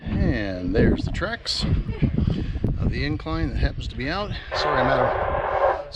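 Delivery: panting after climbing stairs; out of breath from the steps. Real, not acted. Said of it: "sorry, I'm out of breath".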